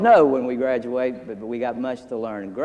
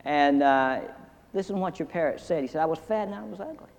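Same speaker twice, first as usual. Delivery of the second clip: higher, indignant customer complaining; offended customer; 5 semitones higher, 4 dB quieter than usual. Acted. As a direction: whine it like a hurt shopper. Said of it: "And he says".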